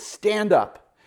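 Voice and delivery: high, loud command "Stand up"; apostle's bold command; commanding call. Retold or imitated. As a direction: order the lame man up. Paul commands lame man.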